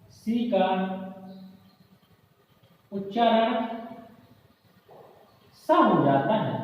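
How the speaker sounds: measured dictation in small chunks; teacher dictating a rule; word-by-word dictation. Real, not acted. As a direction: give it piece by piece with long pauses.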